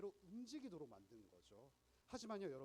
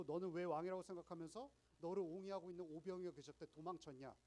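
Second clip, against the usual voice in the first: taunting question; 3 semitones higher, 6 dB louder than usual. Retold or imitated. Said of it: "이렇게 묻는 거예요".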